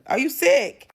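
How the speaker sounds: outraged high squeal at the screen; disbelief. Real, not acted. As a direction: shriek it in sassy disbelief. Reacting to a kiss in disbelief.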